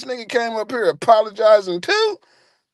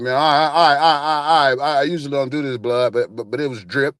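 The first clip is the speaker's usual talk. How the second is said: low, mumbling admission; sheepish mumble; 5 semitones lower than usual. Retold or imitated. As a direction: stammer it out low and embarrassed. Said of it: "He said".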